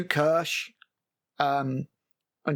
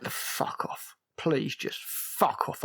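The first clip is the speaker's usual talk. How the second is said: exasperated whisper, slow on "Please just fuck off"; 4 dB quieter, much slower than usual. Retold or imitated. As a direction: hiss it under your breath, fed up. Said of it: "And I'm, I'm just like".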